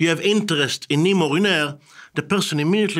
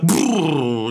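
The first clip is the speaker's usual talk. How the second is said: loud rolled brrr noise; long trilled brrr of recoil; imitated "brrr"; 4 dB louder than usual. Interviewee freezing up at the BBC, trilled noise.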